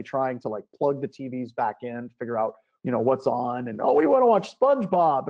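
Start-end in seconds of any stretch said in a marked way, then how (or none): 3.8-5.2 high, loud imitation of children; pitched-up child voice; begging kids. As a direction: plead like excited kids.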